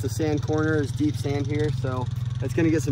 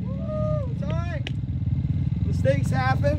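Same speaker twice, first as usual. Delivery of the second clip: high-pitched call to riders; 10 semitones higher, slower than usual. Real, not acted. Coach to riders on the track, high encouraging call. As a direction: cheer them on, pitched well up.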